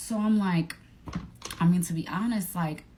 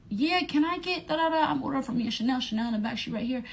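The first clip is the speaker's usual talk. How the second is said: mock Stacy ordering; 7 semitones higher, faster than usual. Voicing Stacy ordering at drive-thru.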